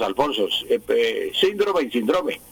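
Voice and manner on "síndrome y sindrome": "síndrome" as SÍN-dro-me, then sin-DRO-me; both stresses. Shown as a demonstration. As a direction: contrast first and middle syllable stress in "síndrome". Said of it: "aparecen las dos".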